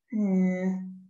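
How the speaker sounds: sceptical hum; doubtful hmm. A narrator's reading. Amelia doubting Norman's story, sceptical. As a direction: she doesn't believe a word. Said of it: "said Amelia".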